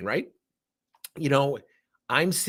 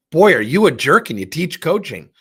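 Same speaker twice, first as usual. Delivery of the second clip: louder, mock-scolding jab; mock outsider scorn; 11 dB louder than usual. Imagined outsider scolding the coach, loud mock scorn. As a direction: play a shocked bystander calling him out.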